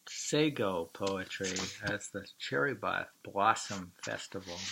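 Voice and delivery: breathy whispered aside. Real, not acted. Speaker whispering a joke to the listener. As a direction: whisper it like a secret. Joking about the frightening weather.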